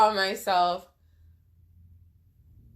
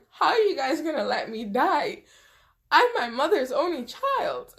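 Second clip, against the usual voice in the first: laughing plea; 4 semitones higher than usual. Retold or imitated. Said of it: "I do remember laughing saying".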